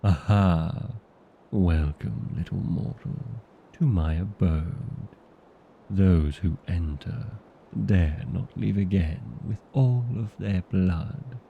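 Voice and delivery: hammy, menacing vampire welcome; theatrical vampire threat; scary vampire. Acted. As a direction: put on a scary show for the interviewer. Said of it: "do something more scary".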